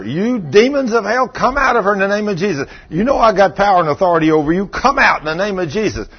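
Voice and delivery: high, driving exorcism rebuke; retold screamed command. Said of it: "I'm screaming at her".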